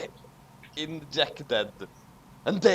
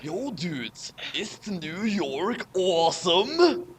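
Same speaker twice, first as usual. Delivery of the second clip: yo dude voice; slower than usual. Acted. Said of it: "your yo dog voice".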